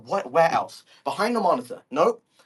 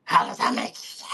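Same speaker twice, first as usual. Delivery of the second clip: whispered disbelief. Real, not acted. Same line, breathed out.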